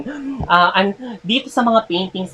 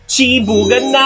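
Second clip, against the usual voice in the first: high, loud call to dig in; excited announcement; 9 semitones higher, 5 dB louder than usual. Acted. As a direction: cheer it out like a host. Announcing the food is ready.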